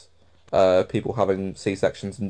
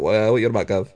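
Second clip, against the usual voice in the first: lightly imitated London accent; a touch of London geezer accent; retold reply in a mild London accent; much faster than usual. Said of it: "London accent".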